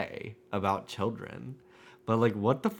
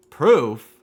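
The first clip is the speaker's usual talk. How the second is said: surprised; 4 semitones higher, 12 dB louder than usual. Acted. Prosecutor challenges the claim.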